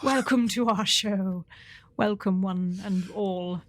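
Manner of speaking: slow, hammed-up British welcome; extra British accent. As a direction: put on a posh-sounding British hosting accent. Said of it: "I'm doing British mode".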